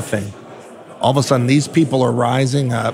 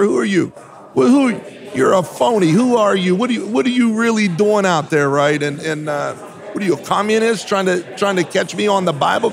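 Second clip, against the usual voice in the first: higher-pitched, challenging questioning; retold confrontation; 6 semitones higher than usual. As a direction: recount grilling them, pitch raised. Retold challenge to supposed pastors.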